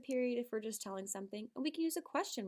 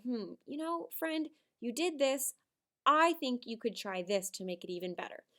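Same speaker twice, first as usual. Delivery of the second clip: kind feedback; 3 dB louder than usual. Shown as a demonstration. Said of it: "we are gonna sit and say".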